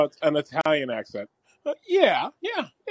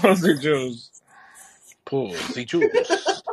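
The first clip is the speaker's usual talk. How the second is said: Puss in Boots; much slower than usual. Acted. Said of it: "Puss in Boots is all about that".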